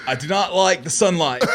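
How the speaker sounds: stiff bad British accent; mock-British movie Dracula; Keanu Reeves British accent. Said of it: "It's just Keanu Reeves' British accent".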